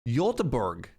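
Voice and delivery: Göteborg said as yuh-teh-borg; copying the Swedish clip; Swedish pronunciation. Shown as a demonstration. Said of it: "that was like a yot sound".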